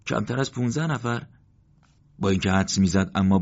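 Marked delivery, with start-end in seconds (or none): 0.1-1.3 higher, stunned echo of the number; a commander hearing his losses, disbelieving; stunned disbelief. A narrator's reading. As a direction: repeat it as if you can't believe it. Morteza repeats the count, stunned.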